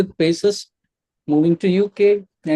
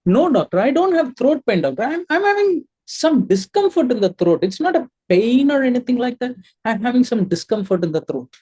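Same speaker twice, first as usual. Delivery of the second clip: higher-pitched patient, lightly acted; 4 semitones higher than usual. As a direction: insist mildly to the doctor, pitch raised then settling. Plays patient describing throat discomfort.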